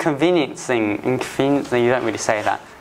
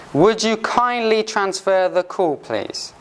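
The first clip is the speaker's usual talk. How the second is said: polite request; 5 semitones higher, slower than usual. Shown as a demonstration. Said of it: "they use kindly because it's just like, being polite".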